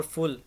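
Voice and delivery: फुल set apart on its own; isolated syllable. Shown as a demonstration. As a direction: sound out फुल as a separate last syllable. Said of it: "ये तीन syllables लगा लें".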